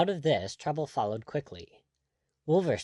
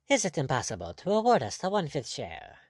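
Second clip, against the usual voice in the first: sulky, pointed question; 4 semitones higher than usual. Acted. Blood pressing the general for their share, sulkily. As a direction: ask it with a sulky edge. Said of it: "quoth Captain Blood sulkily".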